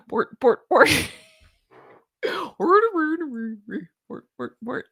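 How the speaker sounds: hammy high Muppet gibberish; Swedish Chef voice. Pretend. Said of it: "I didn't do my Swedish chef".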